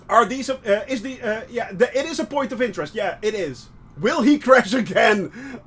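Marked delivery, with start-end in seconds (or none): 4.0-5.6 laughing tease. Pretend. Teasing himself with a laugh.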